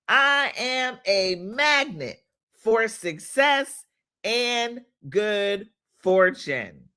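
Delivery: slow, emphatic affirmation chant; slow preacher-like affirmations; affirmation leading. Acted. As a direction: lead the congregation in declaring it, slowly. Leads affirmations for viewers to repeat.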